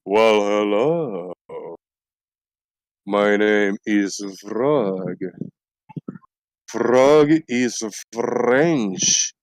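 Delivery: slow, hammed-up French frog voice; intellectual frog voice. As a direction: speak as a snooty French frog, slowly. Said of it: "we have an intellectual frog over here".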